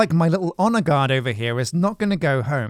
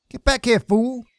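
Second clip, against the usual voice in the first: higher-pitched call after a runaway; playful scolding call, pitched up; calling back; 6 semitones higher than usual. Pretend. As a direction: call a straggling guard back.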